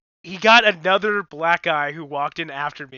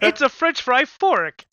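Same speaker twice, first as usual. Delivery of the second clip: imitating the OxyClean guy; 8 semitones higher, 8 dB louder, slower than usual. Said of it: "And he goes".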